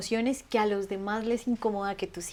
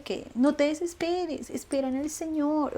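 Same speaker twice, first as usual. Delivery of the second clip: drawn-out mock advice; 5 semitones higher, 4 dB quieter than usual. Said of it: "me saca más la piedra que me digan".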